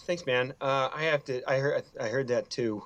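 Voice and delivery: ordinary talk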